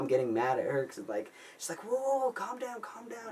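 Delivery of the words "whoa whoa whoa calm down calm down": very high, thin imitation of her soothing; imitated calming girlfriend. Ex-girlfriend calms the panicked caller, high imitated voice. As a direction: pitch way up to mimic her settling someone down.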